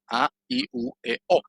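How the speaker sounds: "A, I, U, E, O" as separate Spanish-style vowels, pitched high; pure vowels. Shown as a demonstration. Teacher reading the chart's first row, "A, I, U, E, O" as pure high-pitched vowels. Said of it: "las vocales puras".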